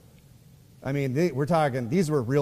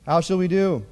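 higher, louder mock panic; panicking servant; 5 semitones higher, 5 dB louder than usual. Preacher voicing the frightened servant of Elisha, in mock panic. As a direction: play the scared servant, a little hammed-up. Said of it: "the other guy's panicking".

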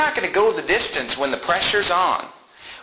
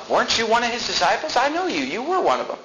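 higher, insistent accusation; accusing waitress; 6 semitones higher than usual. Retold or imitated. Waitress to Peter, insistent higher accusation. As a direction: lean in, I know you.

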